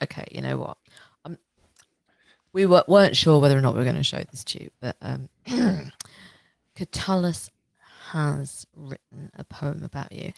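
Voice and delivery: hushed, halting breaking of bad news; quiet, awkward, hesitant confession; reluctant friend. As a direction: break it gently, with long pauses. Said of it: "that guy's, like, friends being in, like, Roman group chat, being like".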